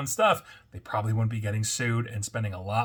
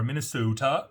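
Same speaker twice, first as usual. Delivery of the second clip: Minnesota with a put-on Minnesotan accent, lightly done; a quick, lightly done mock Minnesotan Minnesota; bad Minnesotan accent. Shown as a demonstration. Host mimics how locals say Minnesota, weak Minnesotan accent. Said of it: "That's a horrible accent".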